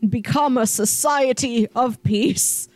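lightly voiced robotic broadcast; a hint of a creepy robot voice; robotic alien voice. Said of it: "creepy kind of robotic voice comes on saying".

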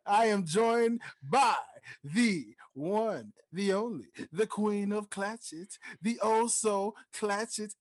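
building hype introduction; grand entrance announcement. Acted. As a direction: roll out the red carpet.

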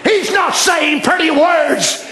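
emphatic pulpit declaration; impassioned sermon delivery; preaching. Acted. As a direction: press the point on the congregation. Preaches at full force.

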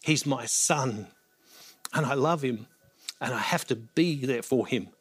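soft, halting and moved, near tears; emotional, choked up. Real, not acted. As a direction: voice his father's worried love, barely holding it together. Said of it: "Sorry for being emotional".

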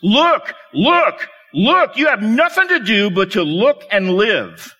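imitating a Methodist preacher crying out; rising, pleading mock shout of look, look, look; retold preacher's shout. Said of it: "he shouted as only a primitive Methodist could do".

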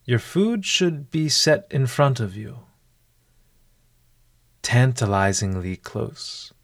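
measured instructions with long pauses; guided meditation. Acted. Host settling a listener before a mindful meal, guided meditation. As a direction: guide the listener unhurriedly, leaving room after each step. Leads a mindful eating exercise.

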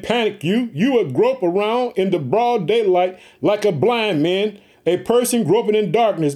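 slow, weighty reading of the curses; scripture reading. Acted. Preacher reading curses to his family, slow and solemn. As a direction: lay each curse down slowly.

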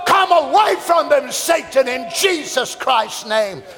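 full-force preacher commanding, drawn out; preaching rebuke. Acted. Preacher rebuking Satan over his flock, full-force shouting. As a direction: cast him out with a preacher's thunder.

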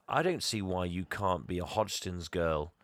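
lightly voiced villain sweet-talking someone; slow, insinuating retold pitch; villain's advances. Acting out the slimy villain's advances.

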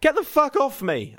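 high, loud, strained yell; shouted protest. A narrator's reading. Narrator in a headlock to neighbour's son, high angry yell. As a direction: yell it as if pinned down. Pinned narrator fights back.

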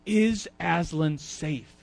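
put-on slow, timid child asking; a little girl afraid to ask; scared little girl. Lucy asking the Beavers about the lion, slow and timid. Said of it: "and she's like".

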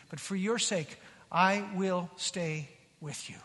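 low, soft promise, slowing at the end; quiet, measured acted pledge; gracious God. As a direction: reassure gently and deliberately as God. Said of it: "here we see the grace of God".

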